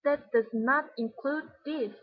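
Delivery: slow, weighted "That does not include this"; slow down and stress every word, from "That" to "this"; each word of "That does not include this" given deliberate weight; whole sentence stressed. Shown as a demonstration. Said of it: "she emphasized the whole sentence".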